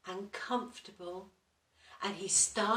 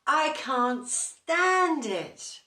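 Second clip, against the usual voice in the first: slow, higher, loud and grumpy; slow, loud, cross bear moan; grumpy complaint; 7 semitones higher, 9 dB louder, slower than usual. Acted. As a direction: grumble it, tired and a little bit grumpy. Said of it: "said Mister Bear".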